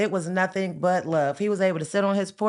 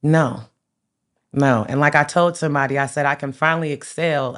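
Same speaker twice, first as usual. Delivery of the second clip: emotional; 3 semitones lower, 6 dB louder than usual. Real, not acted. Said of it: "I don't mean to get emotional".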